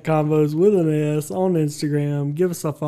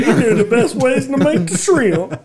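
Forrest Gump impression.

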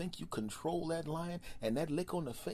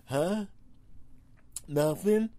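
high, loud incredulous huh; loud mock outrage; mock disbelief; 6 semitones higher, 7 dB louder, much slower than usual. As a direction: act stunned at the answer. Acted interrogation, shocked reply.

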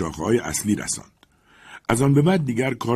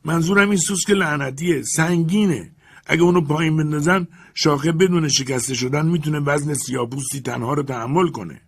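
high, raised servant's voice explaining his fear; old servant explaining; 7 semitones higher, 4 dB louder than usual. Acted. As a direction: plead your case from the branch. Jupiter explains.

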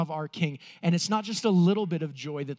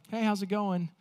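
casual greeting; 3 semitones higher than usual. Retold or imitated. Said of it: "like the fist bump".

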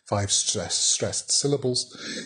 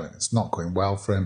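ordinary delivery

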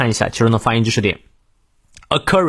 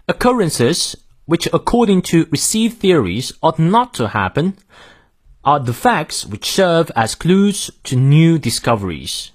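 British model reading, no R after vowels; British pronunciation; 3 semitones higher, slower than usual. Shown as a demonstration. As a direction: read it in British English, saying "are" as "ah". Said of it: "英式发音，". (英式发音，元音后的R不念)

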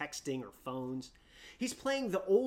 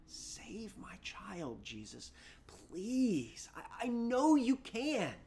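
desperate plea; 4 semitones higher, slower than usual. Acted. Father pleading with Jesus.

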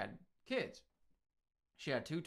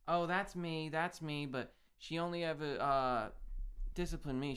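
imitating Little Edie; 3 semitones higher than usual. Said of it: "trying not to do the same accent for both of them".

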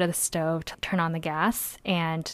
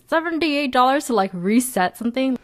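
high, disbelieving repeat of the price; incredulous; 5 semitones higher than usual. Retold or imitated. Shocked at the gas company's fee, higher and incredulous. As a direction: balk at the price, pitched up. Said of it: "And I was thinking".

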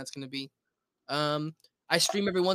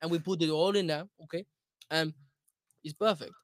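very Italian American accent. Shown as a demonstration. Food show host introducing a recipe, mock Italian accent. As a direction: play up the Italian accent on every word. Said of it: "you're an Italian American, very Italian American".

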